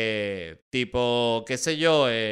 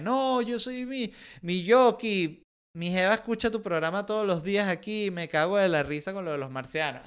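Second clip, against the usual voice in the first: excited fan caller; 6 semitones higher than usual. Acted. Venezuelan listener in Japan calls in.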